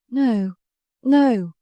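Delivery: rising mild outcry of refusal; cried out. A narrator's reading. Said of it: "She cried".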